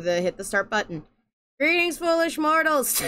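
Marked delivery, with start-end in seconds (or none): 1.6-3.0 grand villain greeting with a laugh; booming demon lord. Acted. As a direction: welcome them like a spooky host. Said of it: "That's a great way to greet your".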